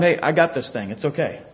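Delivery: low, soft casual reassurance; God reassuring Elisha. Retold or imitated. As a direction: lightly voice an easygoing, reassuring God. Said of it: "it's like God's telling him".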